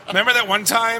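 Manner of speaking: lightly voiced, awkward interviewer bit; a hint of a bumbling fan asking about a memory; Chris Farley. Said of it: "Chris Farley, right?".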